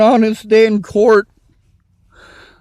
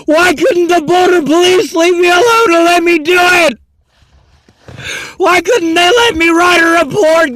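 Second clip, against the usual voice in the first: crying; 4 semitones higher than usual. Real, not acted. Distressed rant about border police.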